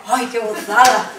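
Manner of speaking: slow, loud, laughing rapture; acted bliss. Newly pregnant woman crossing the bridge home, acted bliss. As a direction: savour it with hammed-up delight. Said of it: "yo veía todo de manera diferente".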